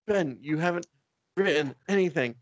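high hammed-up fury; whine-yell at Ben; mock angry rant. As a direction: editor scolding Ben, high mock anger. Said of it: "so angry".

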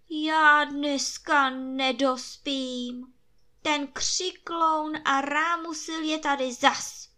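groan, then shout for the guards and cook; groaning emperor. A narrator's reading. Sleepless emperor at the window groans and orders the rooster cooked, loud. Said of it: "zavzdychala v okně císařská výsost".

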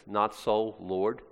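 testing the phrase as if it makes no sense; puzzled question. Shown as a demonstration. Preacher doubting Peter's odd wording, quizzical. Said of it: "Those aren't words that go together well".

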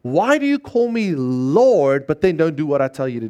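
preacher driving the verse's question; emphatic question. Shown as a demonstration. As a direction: press the question home on "Lord". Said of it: "the emphasis here is on the word Lord".

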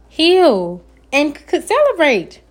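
stumbling over the word; tripping on a word mid-phrase; stuttering. Real, not acted. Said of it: "I be stuttering on here".

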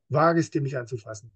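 a threat you fully mean; killing energy. Shown as a demonstration. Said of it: "diese Killing Energy auch denke".

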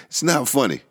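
high-pitched, laughing through the words; fighting back a laugh. Real, not acted. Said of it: "I shouldn't be laughing".

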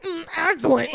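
hammed-up delight; over-eager. What customer avoids sounding like at the window, over-eager. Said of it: "I don't wanna be like".

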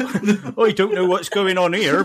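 slow West Country drawl, amused; West Country accent. Retold or imitated. Player re-enacting their slipped accent, slow West Country drawl. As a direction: play baffled in broad, slow West Country. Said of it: "West Country accent all of a sudden".

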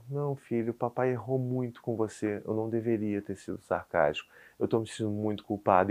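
soft, subdued confession; guilty, tearful apology retold. Dad apologizing to his crying son, softly remorseful. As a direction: apologize quietly and tenderly, owning the fault. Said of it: "eu chorando junto com ele".

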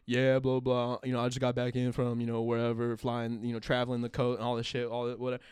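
rival's casual chat. Retold or imitated. Rival chatting about his travels, low offhand imitation.

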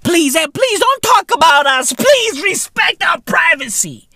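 hammed-up imploring voice; mock pleading. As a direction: beg for privacy, mockingly. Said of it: "out here talking about privacy".

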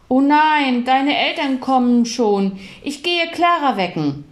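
a hint of alarmed hurry; startled mum. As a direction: guests arrive too early. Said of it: "rief Mama erschrocken".

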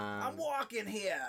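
hammed-up East Coast accent, high and drawn out; big slow mock regional accent holler; mock accent shout. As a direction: tease with an exaggerated American city accent. Mock accent shout, teasing co-host.

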